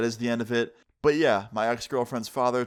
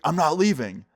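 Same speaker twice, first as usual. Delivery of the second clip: higher-pitched imitation of a stubborn angry dad; defiant refusal; 5 semitones higher, 4 dB louder than usual. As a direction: dig in and refuse indignantly. Acted dad refuses again.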